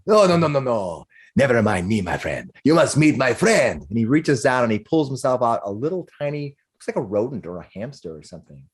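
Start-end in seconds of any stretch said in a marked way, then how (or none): 0.1-3.8 laughing, jolly stranger in character; hearty voice, brushing the question off merrily; boisterous balding man. Acted. Balding man waves off the performer's question, jovial.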